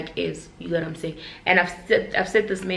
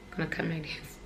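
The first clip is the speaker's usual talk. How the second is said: much softer, in a different dark voice; hushed ominous aside; 11 dB quieter than usual. Shown as a demonstration. A vlogger warning viewers about comparison, hushed and ominous.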